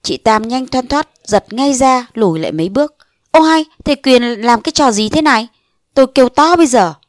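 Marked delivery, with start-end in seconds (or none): 3.3-6.9 indignant warning. Acted. Woman fends off a soldier.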